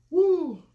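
shouted high woo from the heat; loud high whoop. Real, not acted. Mouth burning from hot food.

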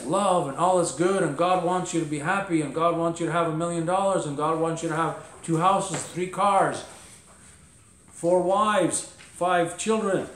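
lightly sarcastic, emphatic piled-up list; mock the feel-good preachers' endless promises. Real, not acted. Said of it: "a little bit of sarcasm".

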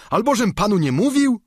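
high, loud indignant squire; Sancho. Acted. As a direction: protest sharply to his master. Sancho protests. (wysoko i głośno, oburzony giermek)

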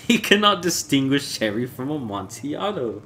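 mock the rival with tipsy contempt; scornful Fortunato.

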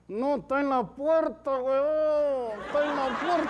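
laughing retort. Acted. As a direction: brush him off through a laugh. Woman laughs off the warning. (la señora responde riéndose, más aguda)

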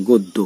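গদ্য as "god-do"; vowelless first d. Shown as a demonstration. Teacher shows students, গদ্য with a closed d. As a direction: stop on a bare d in গদ্য. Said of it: "দয়ের উচ্চারণ করছি শুধুমাত্র".

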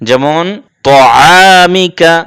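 'ত আমিকা' with a thick, rounded 'to'; heavy t. Shown as a demonstration. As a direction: stretch 'ত আমিকা' in recitation, first sound heavy 'to'. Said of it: "এই তটা মোটা করে পড়তে".

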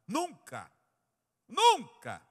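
loud, high single-word cry; emphatic denial. Real, not acted. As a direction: throw the word out hard to the room.

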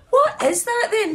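asking through real laughter; laughing question. Real, not acted. Cracking up at optional extras, asking through laughter.

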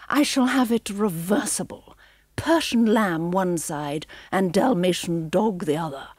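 lightly voiced haughty villainess, scheming; a hint of a cruel aristocrat plotting; cold plotting, dropping to a hush at times; villainess Cruella.

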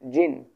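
জিন drawn like a straight line; teacher demonstrating first-tone জিন. Shown as a demonstration. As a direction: sustain জিন as one clear syllable. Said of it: "সরলরেখার মতো যাচ্ছে".

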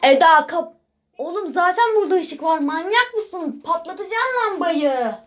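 echoing bathroom voice; cave echo. Real, not acted. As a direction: speak in an echoing tiled room. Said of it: "sesim yankı yapıyor çünkü tuvaletteyim".

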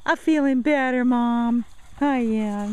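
light high-pitched dog voice; lightly voiced dog telling mom she's better; voicing the dog. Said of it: "She says".

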